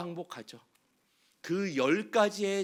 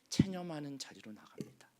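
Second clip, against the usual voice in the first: whispered; 2 semitones lower, 7 dB quieter than usual. Acted. Resignation line whispered.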